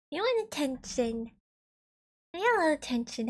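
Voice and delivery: a hint of cooing pet-talk; cat voice. Real, not acted. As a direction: gently tease a kitty with questions. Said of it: "it's my cat voice".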